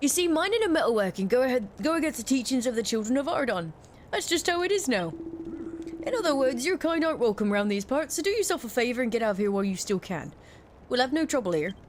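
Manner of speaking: lightly voiced Cockney local, warning off an outsider; a hint of a wary London villager; Cockney miner. NPC warning dialogue read aloud.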